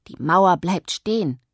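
slow and loud, refusing to give in; shouting. A narrator's reading. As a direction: Yoshi shouting that the wall stays. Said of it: "schrie er".

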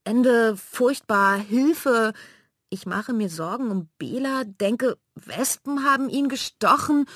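high, loud, panicky mock shriek. Mela mimicking Manja's shrieks for help, high and loud. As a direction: throw her screaming back at her, high and loud. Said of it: "hier eben herumgekreischt".

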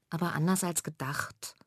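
softly muttered aside; little sister murmuring after father's joke. Acted. Leise gemurmelt. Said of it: "murmelt Mela".

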